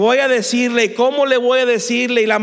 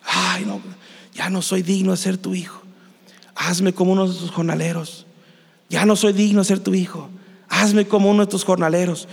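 a touch low and subdued, acted dejection; acted humble murmur of self-reproach; downcast; 3 semitones lower than usual. Prodigal son walking home, rehearsing his apology, downcast. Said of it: "va caminando cabizbajo".

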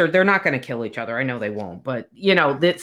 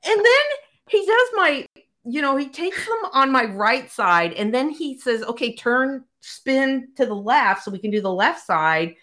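high voice, laughing throughout; real embarrassed laughter; laughing retelling; 8 semitones higher than usual. Real, not acted. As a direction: tell it cracking up.

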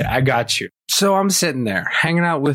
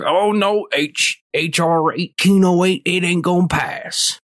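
higher-pitched mocking quote; mock pro-gun guy; 5 semitones higher than usual. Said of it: "every pro-gun guy here".

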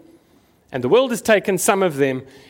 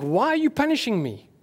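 mock anguished questions, pitched higher; pleading lament; 5 semitones higher than usual. Believer in a hard season asking God why, higher plaintive whine. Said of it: "you look to God and you think".

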